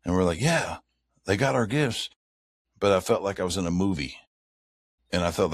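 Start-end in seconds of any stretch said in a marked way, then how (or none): 0.4-2.1 mildly excited retold cheer, pitched up; a touch of glee, voice lifted. Camper recalling their reaction to owls taking gifts, mildly excited. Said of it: "'cause we were excited".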